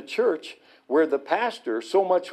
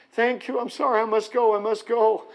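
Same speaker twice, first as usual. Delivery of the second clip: hurried goodbye; 7 semitones higher than usual. Retold or imitated. Rabbi hurrying away.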